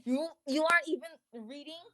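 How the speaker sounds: half-serious teacher reprimand, speeding up; mock teacher. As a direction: pretend to tell off a pupil. Playing scolding teacher in reading hour.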